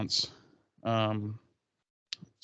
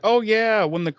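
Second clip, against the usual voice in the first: excited voice; 6 semitones higher than usual. Retold or imitated. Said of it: "and she's like".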